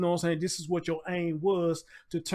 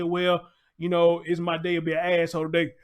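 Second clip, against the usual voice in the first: mock smug cop; 6 dB louder than usual. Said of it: "He was trying to be funny".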